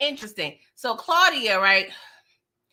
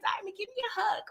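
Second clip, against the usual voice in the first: soft unvoiced whisper, higher; 10 semitones higher, 9 dB quieter than usual. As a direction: breathe it tenderly, barely voiced. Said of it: "I was like".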